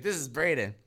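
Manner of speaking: lightly put-on Russian accent. Teacher introducing a new pupil, light Russian accent. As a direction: add a hint of Russian accent. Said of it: "Russian accent".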